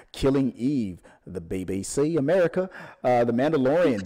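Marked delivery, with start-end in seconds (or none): 1.2-2.7 light British accent on BBC America. Shown as a demonstration. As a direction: say it like a Brit. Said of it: "that authentic British accent".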